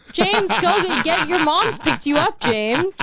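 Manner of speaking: high, slow sing-out farewell; mock calling out. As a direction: call after a departing child, high and drawn out. Playfully sends the character away.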